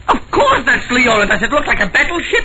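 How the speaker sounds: scoffs through a laugh; laughing scornfully. Acted. Painter laughs at the detective's question about the portrait, scornful.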